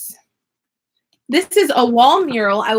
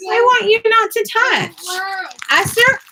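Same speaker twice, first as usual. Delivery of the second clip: stern; 7 semitones higher than usual. Real, not acted. Mother scolding kids in office.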